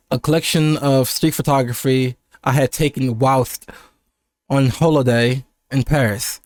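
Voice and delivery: measured, European-styled reading; sounding European. Shown as a demonstration. Streamer reads his book's first draft, trying to sound European. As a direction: read it with a light European affectation. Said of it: "like, sound European".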